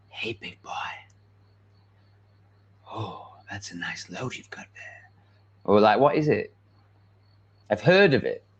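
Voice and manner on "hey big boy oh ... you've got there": gentle ASMR-style whisper. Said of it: "Are you whispering like".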